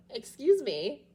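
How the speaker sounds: high playful "excuse me"; delighted fake shock; mock surprise. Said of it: "So I'm like".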